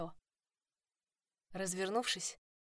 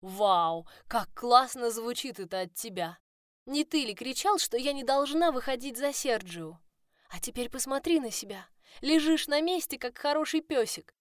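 sarcastic mockery; 5 semitones higher, 6 dB louder than usual. A narrator's reading.

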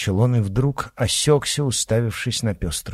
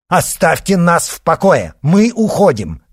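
loud, much higher bark; 9 semitones higher, 9 dB louder than usual. A narrator's reading. Father barks at Shadow that they are leaving. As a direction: bark it in their faces. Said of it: "рявкнул Давыдов-старший".

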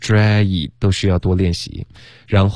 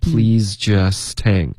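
"Please just hang" slow, linked together; slow and smooth; much slower than usual. Shown as a demonstration. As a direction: glide through "Please just hang" slowly. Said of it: "这样，OK".

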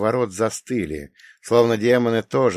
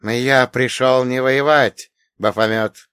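hoarse; 3 semitones higher, 6 dB louder than usual. Acted. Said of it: "хрипло произнес Каин".

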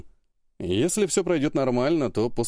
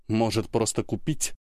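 mocking mimic. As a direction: parrot her scornfully. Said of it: "передразнил её Сергей".

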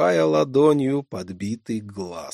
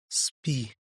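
insistent request; 8 dB quieter than usual. Acted. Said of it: "настойчиво попросила".

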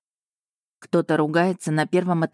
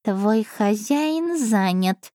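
matter-of-fact; 4 semitones higher, much slower than usual. Acted. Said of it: "деловито просветила его Аша".

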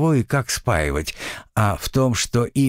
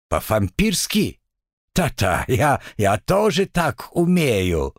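lisping devil voice; slower than usual. Acted.

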